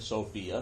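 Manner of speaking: Sophia said as so-FEE-uh; Greek pronunciation. Shown as a demonstration. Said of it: "That's exactly how you pronounce it".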